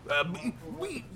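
put-on trying a Boston accent. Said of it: "I can't do it".

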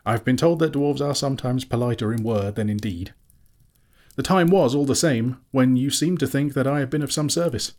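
indignant hobbit Bilbo. A narrator's reading. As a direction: protest with mounting indignation. Bilbo protests.

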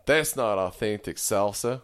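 slow, loud mock Texan; Texas accent. Parodying the salsa ad, slow Texas drawl. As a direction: scold slowly in a hammed-up Texas drawl. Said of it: "Can you do a Texas accent?".

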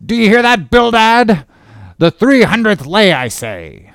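high, loud captain's shout; insistent shout. A narrator's reading. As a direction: call it out so he cannot ignore you. Peleg insists loudly to Bildad.

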